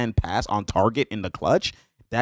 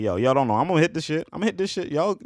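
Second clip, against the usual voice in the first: mock chuckly boast, rising in pitch; imitated laughing cockiness; 6 semitones higher, faster than usual. Player laughing at the Nets bench, imitated cocky laughing. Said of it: "He's laughing like".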